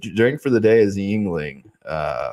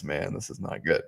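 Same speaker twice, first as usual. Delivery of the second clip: hiccups; 5 semitones lower, 11 dB quieter than usual. Real, not acted. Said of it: "Bro, I got the hiccups".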